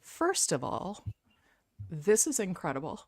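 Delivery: choked up, halting between phrases; emotional, pausing to keep composure; fighting back tears. Real, not acted. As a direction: hold back real tears while speaking. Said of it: "I'm trying not to cry".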